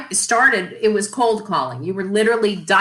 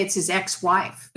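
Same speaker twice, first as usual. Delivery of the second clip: sly; 2 semitones lower, 5 dB quieter than usual. Retold or imitated. Cheeky phone trick.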